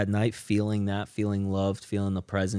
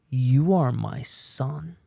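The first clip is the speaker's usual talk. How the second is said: slow, deliberate and tender; slow tender declaration; 4 semitones higher, 4 dB louder, much slower than usual. Retold or imitated. Wife telling husband he is her son, slow and tender. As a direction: lay each word down slowly. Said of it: "She says".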